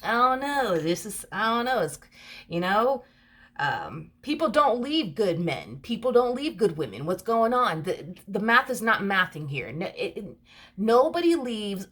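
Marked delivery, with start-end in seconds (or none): 0.0-7.8 higher, bewildered musing; a puzzled partner, mildly higher. Retold or imitated. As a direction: mull it over like it doesn't add up. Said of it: "they feel like".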